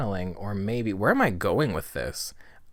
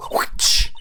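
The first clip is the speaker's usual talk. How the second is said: whooshing whip noise made by mouth; imitated whip crack; 8 dB louder than usual. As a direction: mimic a whip swishing and cracking.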